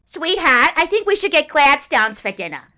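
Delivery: cartoonish Boston accent, high and loud. Reenacting a car conversation with Gus, in a Lois and Peter Griffin Boston accent. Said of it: "Lois and Peter Griffin hybrid Boston accent".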